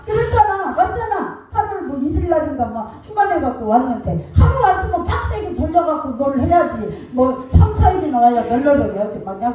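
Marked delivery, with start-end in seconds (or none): none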